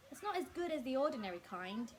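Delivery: talking through a mouthful; words round a bite of spaghetti; mouth full. Acted. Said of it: "talking with his mouth full".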